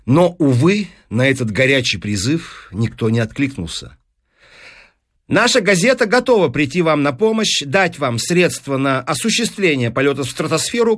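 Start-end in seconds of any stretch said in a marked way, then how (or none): 5.3-11.0 lightly voiced eager deal-maker, lifted at first; persuasive newspaper businessman. Newspaperman offering the professor money, persuasive. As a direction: pitch it like a smooth salesman.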